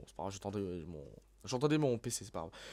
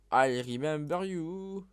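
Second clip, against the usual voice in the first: slow, higher, rising singsong title; singsong announcement, climbing in pitch; playful drawn-out title; 4 semitones higher, much slower than usual. Pretend. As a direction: stretch out the song name playfully.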